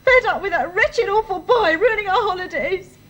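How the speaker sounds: tearful complaint breaking into sobs; crying. Acted. Daughter tells her parents about the boy, crying. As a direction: sob through the words. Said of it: "Darling, why are you crying?".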